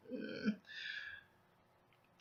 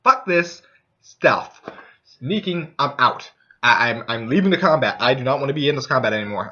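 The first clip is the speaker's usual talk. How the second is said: storming out; 4 dB louder than usual. Retold or imitated. Thief storms out of combat.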